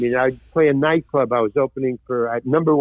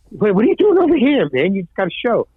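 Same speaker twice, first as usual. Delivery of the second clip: incredulous bartender; 5 semitones higher than usual. Retold or imitated. Bartender questioning him.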